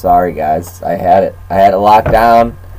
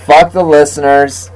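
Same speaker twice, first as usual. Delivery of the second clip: laughing, cursing rant; hammed-up cursing tirade; mock rant; 3 semitones higher than usual. Real, not acted. Laughing rant after bad dice.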